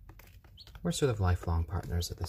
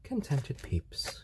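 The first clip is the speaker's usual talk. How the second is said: soft soothing voice; 5 semitones higher, 5 dB quieter, slower than usual. Real, not acted. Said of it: "calm and soothing".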